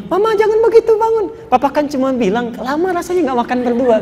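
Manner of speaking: high-pitched, tender acted consoling; sweet reassurance. Husband tells kneeling wife to get up, high and sweetly consoling. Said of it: "manis sekali perilakunya".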